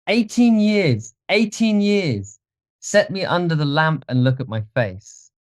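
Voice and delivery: excited, high-pitched outburst; triumphant cry. Acted. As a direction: seize on the words in exultant relief. Dorian triumphant, saved by hope.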